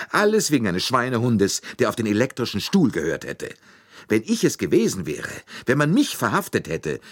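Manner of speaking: an Italian chauffeur pleading and accusing at once; agitated Italian suspect. Acted. Accused chauffeur protests to Poirot, agitated and loud.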